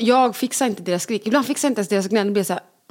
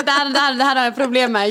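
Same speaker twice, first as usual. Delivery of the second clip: put-on diva child; 4 semitones higher than usual. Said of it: "en diva där som säger".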